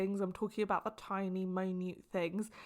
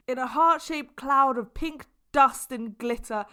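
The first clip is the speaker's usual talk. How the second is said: over-the-top joking declaration; 2 semitones higher, 4 dB louder than usual. Pretend. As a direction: pile it on, sweeter and bigger each line. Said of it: "As a joke".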